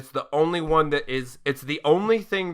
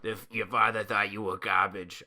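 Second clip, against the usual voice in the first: lightly voiced low, quiet Spider-Man; a hint of mopey Spider-Man, softer; mumbled mock Tobey Maguire; bad Spider-Man voice; 5 semitones lower, 5 dB quieter than usual. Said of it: "that's just my bad Spider-Man voice".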